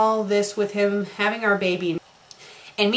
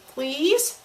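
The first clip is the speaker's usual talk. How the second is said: high, squeaky, pleading little please; squeaky begging please; 7 semitones higher than usual. Acted. Nervous boyfriend begging her to answer, squeaky plea. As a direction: beg like a desperate puppy. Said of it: "He said in a squeaky, pathetic, begging way".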